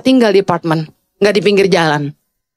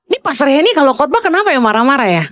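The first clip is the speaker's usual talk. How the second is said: higher, swooping questioning tune; imitated interviewer; 7 semitones higher, faster than usual. Interviewer asking a husband about his wife, inquisitive. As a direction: voice a curious question with big pitch swoops.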